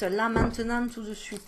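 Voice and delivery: "tout de suite" fading off in a light Southern French twang; half-hearted Southern French accent. Pretend. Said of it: "Pourquoi je prends l'accent du Sud?".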